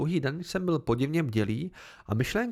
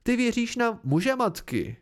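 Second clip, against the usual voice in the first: higher, slow, amazed; 9 semitones higher, 3 dB louder than usual. Acted. Pente marvelling at the man's belief, higher and slow. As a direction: savour the absurd idea.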